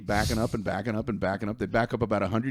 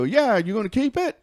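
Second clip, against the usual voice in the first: eager hunter; 10 semitones higher, 5 dB louder than usual. Retold or imitated. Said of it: "And they go".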